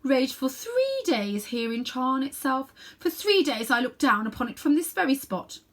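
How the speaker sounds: grim queen. Acted. Queen recounts the last battle.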